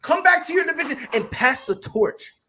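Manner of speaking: mock callout yelled at the champion; loud callout. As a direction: call him back to his division. Calling out champion to return.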